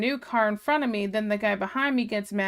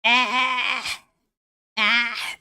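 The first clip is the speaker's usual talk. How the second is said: short raised yelps brushing off a worry; a hammed-up exasperated "ah, ah"; playful fake alarm shout; mock panicked shout. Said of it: "I was like".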